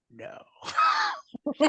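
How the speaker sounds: a high, stretched-out squeal of dread; the cry of a kid who wants to run away; horrified no. Retold or imitated. Young wrestler spotting New Jack, squealing a high, drawn-out no.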